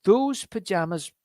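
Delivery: mock-surprised innocent Stanley. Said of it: "And he says".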